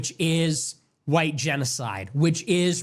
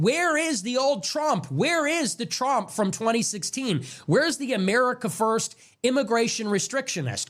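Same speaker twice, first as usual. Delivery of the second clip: frustrated rant; 4 semitones higher than usual. Retold or imitated. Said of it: "these frustrated rants".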